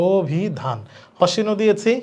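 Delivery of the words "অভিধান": "অভিধান" measured out as "o-bhi-dhan"; o-like first vowel. Shown as a demonstration. Teacher answering her own question, "অভিধান" as "obhidhan". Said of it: "ও এর মত হবে".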